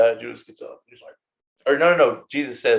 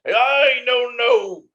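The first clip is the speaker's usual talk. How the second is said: higher, slow fake French accent; mock French accent; 8 semitones higher, much slower than usual. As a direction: insist in a put-on French accent. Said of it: "Your accent gives you away".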